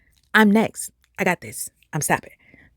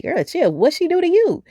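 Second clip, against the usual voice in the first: sassy self-talk; 10 semitones higher than usual. Retold or imitated. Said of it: "I'm, like, asking myself".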